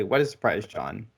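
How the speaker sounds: replayed dry sarcasm; sarcastic. Recapping own joke to John, sarcastic. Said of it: "Like I said sarcastically".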